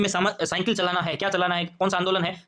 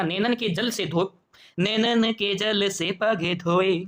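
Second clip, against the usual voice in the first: poem recitation; much slower than usual. Acted.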